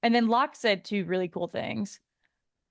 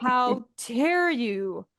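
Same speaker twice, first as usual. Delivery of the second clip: mock outrage; 3 semitones higher, much slower than usual.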